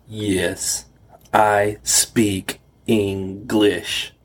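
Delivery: slow mocking drawl; mock the tourist's slow speech. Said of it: "he said in a mocking tone".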